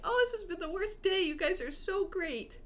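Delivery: a touch of happy tears in the voice; teary thanks. Retold or imitated. Thanking the kind dentist while close to tears, mildly teary. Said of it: "I was crying to him".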